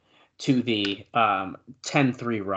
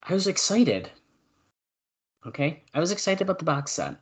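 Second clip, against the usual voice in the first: pitched up high in self-defence; mock-defensive protest; 7 semitones higher than usual. Real, not acted. Host excusing his slip about the box set, high defensive protest. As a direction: protest the teasing in a higher voice.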